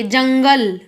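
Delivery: जंगल with the anusvar sounded through the nose; nasal pronunciation demo. Shown as a demonstration. Teacher showing pupils how anusvar sounds, जंगल said through the nose. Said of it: "इसका उच्चारण नाक से करते हैं".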